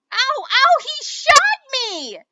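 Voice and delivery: high, loud pained scream. A narrator's reading. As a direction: scream out in pain and shock. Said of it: "Patrick screamed".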